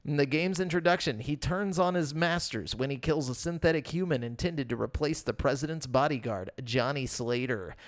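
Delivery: steady informational read-aloud. Real, not acted. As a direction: read a game synopsis off the page. Reads out a game synopsis.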